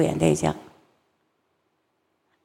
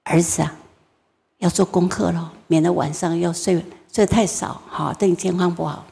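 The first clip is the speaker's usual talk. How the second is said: careful, patient mother; 2 semitones lower, 4 dB quieter than usual. Retold or imitated. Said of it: "小心的跟他说".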